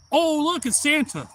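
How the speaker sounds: high, loud imitation of excited kids; mock-childlike high-pitched delight; super excited kids. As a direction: squeal it like kids spotting Santa. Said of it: "all super excited".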